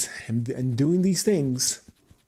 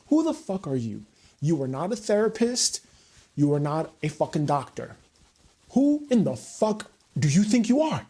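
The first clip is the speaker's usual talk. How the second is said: angry rant; 2 semitones higher than usual. Real, not acted.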